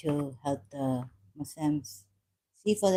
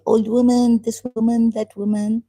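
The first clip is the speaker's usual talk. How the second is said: high, loud mocking call; mock shouting of critics' insults; mock accusing shout; 8 semitones higher, 9 dB louder than usual. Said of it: "they're going to come and say".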